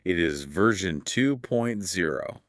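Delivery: flat, droning robot voice; monotone robot impression. Shown as a demonstration. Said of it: "I'll do my best robot impression".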